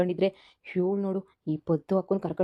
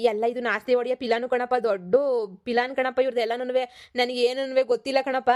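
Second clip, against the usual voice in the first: nervous stammering. Acted. Son pleads with his father, stammering and scared. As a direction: stumble over every denial.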